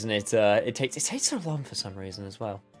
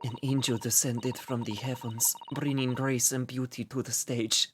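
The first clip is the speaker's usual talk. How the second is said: put-on Russian accent; 4 dB quieter than usual. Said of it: "That was more Austrian than Russian".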